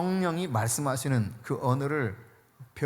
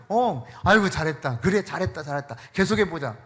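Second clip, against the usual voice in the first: encouraging God. Retold or imitated. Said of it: "이러신다니까요".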